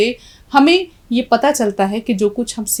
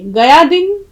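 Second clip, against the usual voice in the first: slow poem recitation; 4 dB louder, slower than usual. Shown as a demonstration. Teacher reciting the couplet once more for the students, slow and declaiming. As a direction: declaim the couplet to close the lesson. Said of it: "तो अब देखिए".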